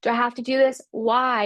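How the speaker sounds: half-playful moan about a hard exercise; complaining client. Retold or imitated. New client complaining to instructor about hard exercise, mock whine. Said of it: "they're gonna complain and be like".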